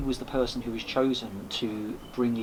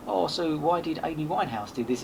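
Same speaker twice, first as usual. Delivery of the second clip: imitating Italian busker; 5 semitones higher than usual. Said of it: "through broken, like, Italian language".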